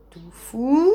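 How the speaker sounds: a touch of sternness; mildly severe question; stern. Acted. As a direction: call his name sharply. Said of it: "demande sévèrement Rhume Bizarre".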